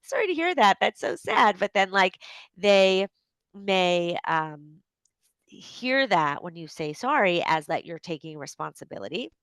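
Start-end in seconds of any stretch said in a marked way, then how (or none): 0.0-1.6 higher-pitched, sympathetic cooing; commiserate, pitch lifting on the sorry; acted-out sympathy, no apology meant. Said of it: "like, South Africans say". 6.9-7.4 real Canadian accent on "sorry"; lightly Canadian "sorry". Real, not acted. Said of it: "there you hear my Canadian accent".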